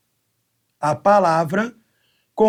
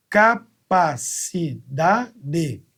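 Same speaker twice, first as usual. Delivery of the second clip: slow syllable count; 2 semitones lower, much slower than usual. Shown as a demonstration. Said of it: "Uma, duas".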